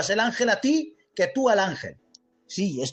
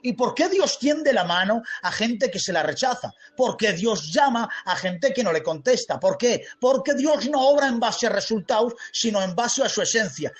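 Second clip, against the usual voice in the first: emphatic, raised, drawn-out sermon delivery; forceful preaching; 3 semitones higher than usual. Real, not acted. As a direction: preach it with rising fervour.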